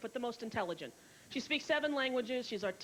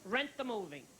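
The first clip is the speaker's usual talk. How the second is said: breezy director; 4 semitones higher than usual. Retold or imitated. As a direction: wave it off like a careless director. Director Gary reassuring dismissively.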